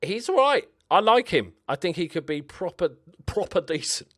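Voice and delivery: high, loud mock French accent; lightly put-on French accent. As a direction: play the French player speaking English. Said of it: "Good English".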